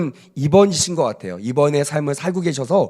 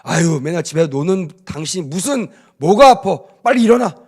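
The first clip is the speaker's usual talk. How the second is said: scolding husband; 2 semitones higher, 3 dB louder than usual. Retold or imitated. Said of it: "이렇게 다그치는 남편".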